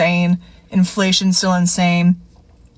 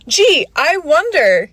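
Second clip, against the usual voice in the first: slow, dry, higher sarcastic drawl; 7 semitones higher, slower than usual. Real, not acted. To people raising prices, a slow sarcastic jab. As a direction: roll your eyes at the obvious answer.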